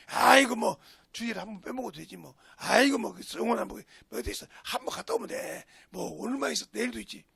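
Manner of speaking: breezy, dismissive persuasion; acted casual temptation; coaxing tempter. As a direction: wave it off as no big deal. Acting the voice of the tempter.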